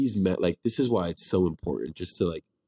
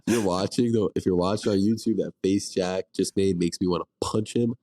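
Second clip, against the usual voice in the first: blocked nose from the flu; stuffy nose. Real, not acted. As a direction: talk through a stuffed-up nose. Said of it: "my nasally voice and my sniffles".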